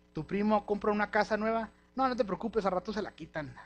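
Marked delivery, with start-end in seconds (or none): 2.0-3.6 mild mock scoff. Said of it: "¿Quién conoce a alguien que habla así?".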